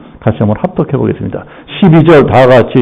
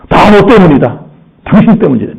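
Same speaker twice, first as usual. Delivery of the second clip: spouse quarrel; 4 semitones higher than usual. Acted. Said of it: "어떤 식으로 싸워요".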